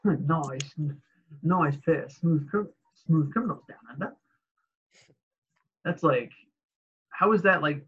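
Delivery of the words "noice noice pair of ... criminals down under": lightly imitated Australian accent; mock Aussie vowels, Australian style. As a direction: quote it with a hint of Australian. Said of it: "he's talking in an Australian accent".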